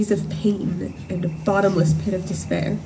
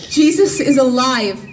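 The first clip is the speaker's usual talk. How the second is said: raised, higher cry of joy; joyful shout; 4 semitones higher, 5 dB louder than usual. Acted. Mary telling that her Lord lives, in a joyful shout. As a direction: proclaim it aloud, thrilled. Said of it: "I shout".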